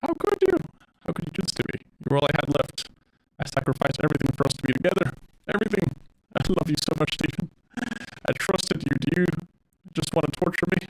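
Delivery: put-on pleading, hurt AI girl; wounded, accusing girlfriend voice; Monika voice. Reading Monika's lines aloud.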